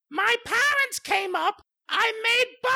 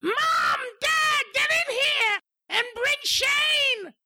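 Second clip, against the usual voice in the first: calling out. Acted. Calling parents to the TV.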